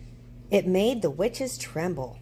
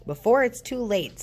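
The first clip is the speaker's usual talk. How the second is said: snarling vampire; 6 semitones higher, 4 dB louder than usual. A narrator's reading. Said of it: "snarled the vampire".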